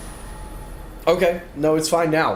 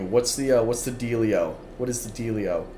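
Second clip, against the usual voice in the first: mouth full; 3 semitones lower, 3 dB quieter than usual. Real, not acted. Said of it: "I'm eating a sandwich".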